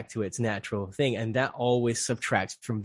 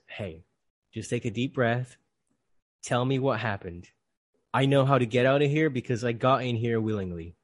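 gentle reassurance. Retold or imitated. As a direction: talk a panicking man down, gently. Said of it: "the guy very gently puts his hand".

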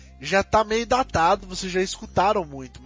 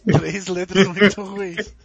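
drawn-out dramatic listing; slow and emphatic; 4 dB louder, much slower than usual. Real, not acted. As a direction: spell the letters out slowly.

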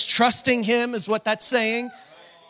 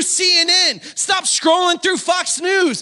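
preaching at full force; 3 semitones higher than usual. Real, not acted. Preacher pushing the church toward amen.

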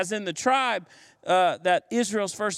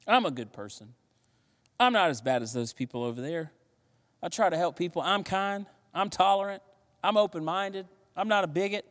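self-satisfied; 3 semitones higher, faster than usual. Retold or imitated. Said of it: "people thinking they're okay".

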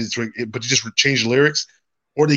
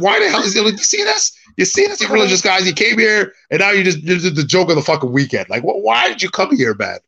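incredulous; 5 semitones higher than usual. Retold or imitated. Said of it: "I was like".

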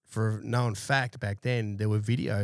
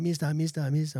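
imitating local man; 6 semitones higher than usual. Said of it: "he's like".

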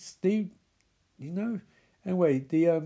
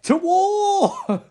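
high, loud cracked war cry; hammed-up battle yell; Raphael; 13 semitones higher, 6 dB louder than usual. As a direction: overdo a rallying scream for laughs. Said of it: "Snake Woman says to Raphael".

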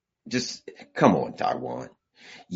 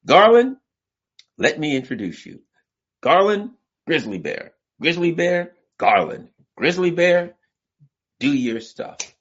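universe introducing; 4 semitones higher, 3 dB louder than usual. Retold or imitated. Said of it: "the universe will simply say to the grizzly bear".

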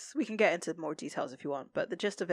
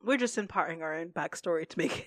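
laughing. Real, not acted. Joking about inventing backstory, both laughing.

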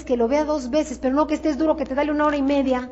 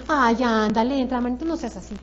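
softly wheedling, lower and trailing off; mock pleading; 3 semitones lower, 4 dB quieter than usual. Coach imitating someone begging a prospect to join, mock pleading. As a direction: coax like someone begging a favour.

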